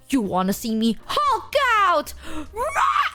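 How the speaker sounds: laughing fake shout ending in a very high roar; mock Hulk roar. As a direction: ham up a pretend rage to bait your friend. Friend voiced mock rage roar.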